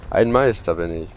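slow, drawn-out self-praise; mock grand boast. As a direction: savour each word like a proud master. Repeats boast more slowly.

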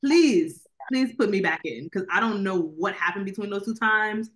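half-joking beg to be let back into the film; mock pleading. Begging to understand the plot.

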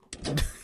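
a short involuntary squeak of a laugh; odd little yelp. Real, not acted. Player lets out an odd noise, embarrassed squeak. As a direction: let a strange little noise slip out. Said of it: "変な声出ちゃった".

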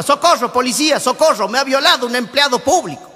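a woman crying out for the police, hammed up; mock cry for help. Joke woman in the park, mock cry for help.

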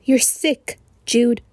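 tense, urgent accusation; low, frantic. A narrator's reading. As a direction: say it with contained franticness. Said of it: "in a low, frantic voice".

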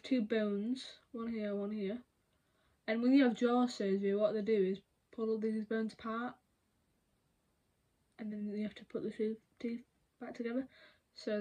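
talking with fingers on face; fingers pressed against lips. Real, not acted. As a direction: hands pressing upper lip. Seen 0: Fingers press on cheeks and upper lip, pointing at bones, not stretching.

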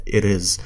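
"it is" with the T as a light D; connected-speech flap. Shown as a demonstration. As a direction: soften the T in "it is" into a quick D. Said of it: "صرنا عم نطلع نلفظها ب D خفيفة".

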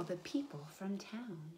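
hushed storyteller whisper. Acted. Storyteller hushes for the smell drifting to town, whispering. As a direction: whisper it like a secret.

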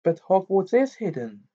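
high-pitched disbelief; surprised. A narrator's reading. Girl correcting Ron about the school, surprised. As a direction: pitch jumps up, taken aback. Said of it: "said Hermione in surprise".

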